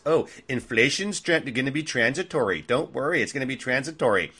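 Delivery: sing-song mock of the Fed line; mocking Yellen and Powell. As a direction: parody the officials as clueless soothers. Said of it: "her and Powell, they're all idiots".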